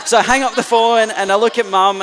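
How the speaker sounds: real laughter breaking into the story; laughing. Real, not acted. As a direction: laugh through the telling. Laughing while retelling.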